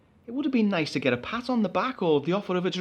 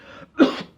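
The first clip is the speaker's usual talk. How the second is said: nervous cough; 7 dB louder than usual. Acted. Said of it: "a cough of the nervous variety".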